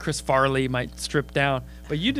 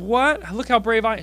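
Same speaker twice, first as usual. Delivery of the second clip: higher, louder boast; proud heckler; 6 semitones higher, 5 dB louder than usual. Retold or imitated. Heckler boasting to the comic, proud. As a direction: show off your bravery. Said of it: "She goes".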